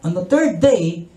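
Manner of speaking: slow preaching. Acted.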